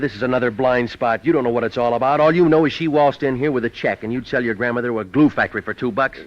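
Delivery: irritated outburst. Acted. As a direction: tear into him, you've been burned before.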